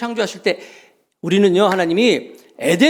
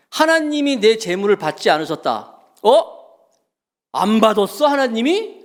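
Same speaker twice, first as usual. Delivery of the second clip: a touch of acted, self-centred anger; mock indignation, rising at the end; mildly indignant Cain; 3 semitones higher than usual. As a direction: lightly play Cain protesting in disbelief. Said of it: "가인이 막 화내고 있어".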